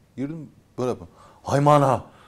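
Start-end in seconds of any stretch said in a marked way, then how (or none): 1.4-1.9 loud, fearful, frightened shouting. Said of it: "korkuyla, bağırarak konuşuyor".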